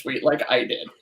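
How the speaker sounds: soft laugh at own expense; kind gentle laugh. Real, not acted. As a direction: chuckle warmly. Shared laugh over viral tweet.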